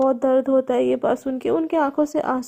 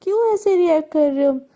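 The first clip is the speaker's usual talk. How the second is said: slow, amused villain, chill तो; lazily taunting the panicked father; mock-casual taunting drawl; 3 semitones higher than usual. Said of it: "हंसते हंसते बोलते". (चिढ़ाते हुए धीमी हंसी भरी आवाज़)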